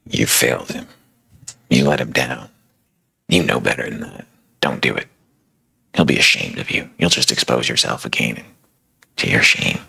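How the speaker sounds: a hint of a low, condemning whisper; accusing inner voice. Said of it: "That voice".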